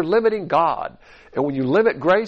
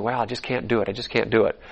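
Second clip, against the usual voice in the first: lower, softer, lightly imitated defeat; mild mock self-pity; 4 semitones lower, 4 dB quieter than usual. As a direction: play a touch of feeling sorry for yourself. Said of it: "you're gonna feel sorry for yourself".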